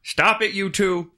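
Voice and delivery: high, loud mock polite cop voice; imitating a cop scolding two adults sweetly; Canadian cop impression. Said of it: "So the Canadian cop goes".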